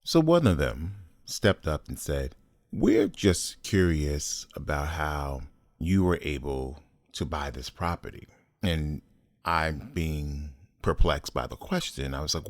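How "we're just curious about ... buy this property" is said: condescending. Retold or imitated. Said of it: "very condescending and very on the verge".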